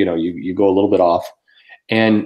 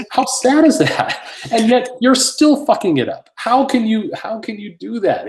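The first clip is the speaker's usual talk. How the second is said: laughing disbelief; 13 semitones higher than usual. Real, not acted.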